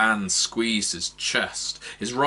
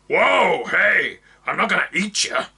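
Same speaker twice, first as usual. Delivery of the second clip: high, loud, quick gruff reassurance; calm him down fast; orc reassurance; 10 semitones higher, 6 dB louder than usual. Acted. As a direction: orc woman reassuring the frightened man. Orc reassures startled man.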